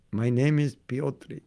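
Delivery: lightly put-on Polish accent introducing himself; mild imitation of a Polish accent, unhurried; mock Polish accent. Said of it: "I don't have a Polish ac".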